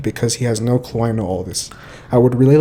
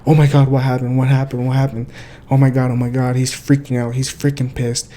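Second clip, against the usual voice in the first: fake shock. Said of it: "put on your freaking Disney Channel audition character".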